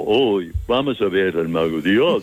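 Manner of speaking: put-on dopey fool's voice; playing dumb. Shown as a demonstration. Actor shows Javier the wrong Scarecrow, playing dumb. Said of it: "se hace tonto como".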